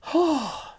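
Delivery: high, breathy overwhelmed sigh; a mock tearful sigh, high and drawn out; emotional sigh. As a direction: let out a high sigh as if moved to tears. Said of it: "At the end, I'm like".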